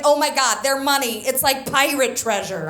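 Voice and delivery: loud imitation of an excited tourist; too enthusiastic. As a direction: gush like an overexcited little sister. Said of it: "They're too enthusiastic".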